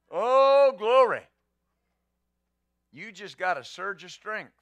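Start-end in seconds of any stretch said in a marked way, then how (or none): 0.1-1.2 loud, much higher cry of praise; joyful shout. Real, not acted. Pastor shouting praise to the congregation, high and loud. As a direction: cry out "glory" in delight. Joyful outburst mid-sermon.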